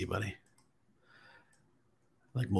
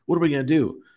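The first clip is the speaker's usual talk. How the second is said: higher, half-joking alarm; mock panic; 6 semitones higher, faster than usual. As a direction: play the couple's January scramble as comic alarm. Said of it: "we're like".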